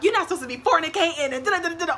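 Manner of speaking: high, loud mock scolding; hammed-up preaching mom; imitated preachy mom. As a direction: scold like a churchy mother. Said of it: "my mom was gonna be like".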